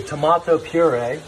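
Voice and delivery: "tomato" said the British way, tuh-MAH-toh; Gordon Ramsay's tomato. Retold or imitated. Copying Gordon Ramsay's "tomato" with a British tuh-MAH-toh. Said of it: "as he would say".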